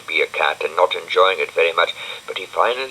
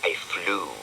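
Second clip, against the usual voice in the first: sarcastic; 8 dB quieter than usual. Acted. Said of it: "said Dougal sarcastically".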